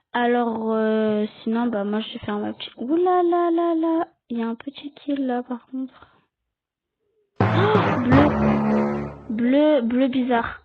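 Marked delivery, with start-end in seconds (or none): 2.8-4.1 high, drawn-out ouh là là; real startled exclamation; surprised ouh là là. Real, not acted. Spots a kill on screen. 7.4-9.1 sharp, much higher and louder oh; real surprise catching a suspect; startled oh. Real, not acted. Sees blue near the kill.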